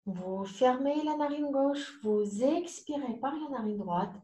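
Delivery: yoga teacher pacing each breath with long pauses; guided breathing exercise. Acted. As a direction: lilt up on inhales, down on exhales.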